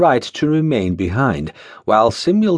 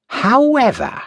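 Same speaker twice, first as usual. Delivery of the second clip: ominous master; 12 semitones higher than usual. Acted. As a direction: let it hang ominously. Ulrich's dreaded pause word.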